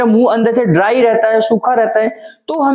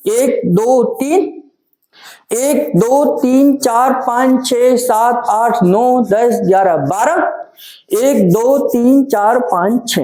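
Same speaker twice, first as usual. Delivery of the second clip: rhythmic counting; slower than usual. Shown as a demonstration. Teacher counts out acupressure strokes for students, measured rhythmic counting. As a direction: count steady, measured beats in pairs. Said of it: "इस तरीके से भी आप दे सकते हैं".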